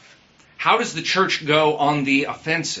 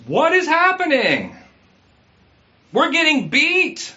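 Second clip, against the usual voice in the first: lament prayer; 4 semitones higher than usual. Pretend. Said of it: "Do you ever pray like that?".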